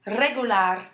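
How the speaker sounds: "Regular" with the R rolled at the start. Shown as a demonstration. Teacher modelling for repeat after me, rolled R in "Regular". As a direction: roll the first R in "Regular". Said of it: "You hear me rolling my R's?".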